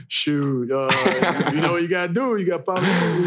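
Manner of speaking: imitating an unbothered doctor; nonchalant. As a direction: stroll in casually, as if nothing is wrong. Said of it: "comes up all nonchalant".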